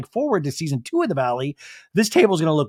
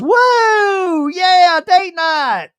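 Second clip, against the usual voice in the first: high, loud party whoop; drawn-out cheering, pitched way up; very excited; 8 dB louder, much slower than usual. Retold or imitated. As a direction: whoop it up, imitating a thrilled reveler. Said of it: "Brittany is very excited".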